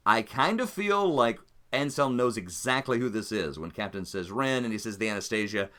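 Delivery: ordinary talk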